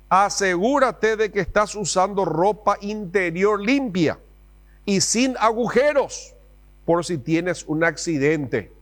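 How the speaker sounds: lightly voiced anxious mom; fussy mom. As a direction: nag like a worried mother. Mom's advice, acted.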